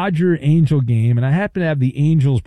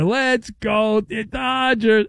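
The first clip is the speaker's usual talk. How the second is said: put-on higher, slow drawn-out kid chant; cute little kid voice; 5 semitones higher, much slower than usual. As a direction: lightly imitate a kid chanting at a game. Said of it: "with his cute little kid voice is going".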